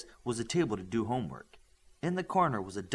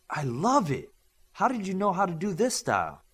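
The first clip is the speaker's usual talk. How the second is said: glowing; 7 semitones higher, 3 dB louder than usual. Acted. Came out glowing.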